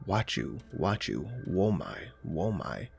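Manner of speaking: lightly voiced low creature growl; low growling sounds. The creature outside growling strange words, low and soft. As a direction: mutter the sounds low and menacing. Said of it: "it just started growling the sounds".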